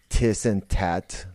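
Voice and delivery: slow Tiss and tat, hard t for th; imitating Scottish. Mimicking Scottish speech, slow Tiss and tat. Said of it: "He talks like Tiss".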